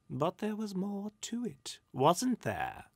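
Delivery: sly spirit probing, starting high. A narrator's reading. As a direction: needle with a knowing question.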